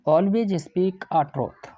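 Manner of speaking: very slow, word by word, like reading out a test sentence; slow dictation. Shown as a demonstration. Teacher reads the exam sentence to his class, very slowly. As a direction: spell out the faulty sentence slowly for students. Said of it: "complete sentence ही होता है".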